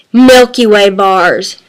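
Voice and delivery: slow, drawn-out low answer; savoring emphasis. Real, not acted. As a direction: linger on each word of the candy name. Candy answer, first take before softer repeat.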